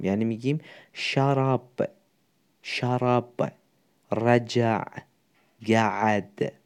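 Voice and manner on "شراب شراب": شراب pronounced with a fatha ending. Shown as a demonstration. Teacher showing the he-form to students, ending شراب on a fatha. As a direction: say شراب with a short open "a" vowel after the final b.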